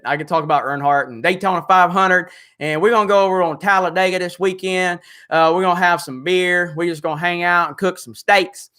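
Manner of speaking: put-on a light Southern redneck accent, lazy and folksy; redneck Jeremy. Streamer plays redneck Jeremy for chat in a light Southern accent. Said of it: "You guys want redneck Jeremy?".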